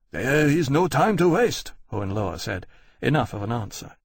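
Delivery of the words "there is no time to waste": urgent. A narrator's reading. General urging.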